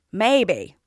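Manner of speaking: put-on a hungry old dragon's retort. Dragon speaks in tale.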